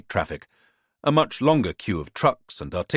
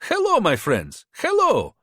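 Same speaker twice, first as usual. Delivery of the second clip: put-on higher-pitched, smooth-talking hustler with a foreign accent; charming border fixer; 12 semitones higher than usual. A narrator's reading. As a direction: sell yourself like a friendly tout. Bogdan's held voice.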